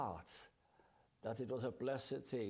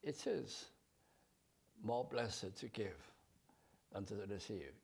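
loving quote; 3 semitones lower than usual. Shown as a demonstration. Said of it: "I love this phrase".

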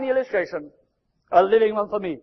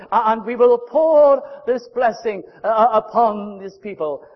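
commanding call; 4 semitones higher, 5 dB louder than usual. Acted. God commanding his angels.

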